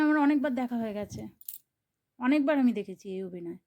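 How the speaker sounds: ordinary delivery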